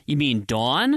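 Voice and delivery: DAWN leaned on with a rounded "aw"; over-rounded Dawn. Acted. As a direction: question it with an exaggerated W in "Dawn". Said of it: "really accentuate the W".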